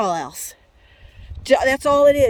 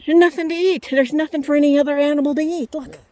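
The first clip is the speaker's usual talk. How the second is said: retold angry complaint; 4 semitones higher than usual. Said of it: "Paul says".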